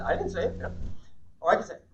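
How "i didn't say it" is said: "I" stressed, the rest let fall. Shown as a demonstration. Trainer explaining the implied meaning, stress on I. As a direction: point up "I" as the one who didn't. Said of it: "someone else might have said it".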